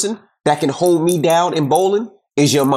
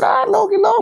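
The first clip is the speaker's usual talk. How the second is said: much higher, squeaky stunned dad voice; mock surprised dad. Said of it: "I said".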